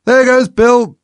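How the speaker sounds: very high, loud shout; high-pitched yell; excited chorus cry. A narrator's reading. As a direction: cry out like an onlooking crowd. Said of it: "a general chorus of".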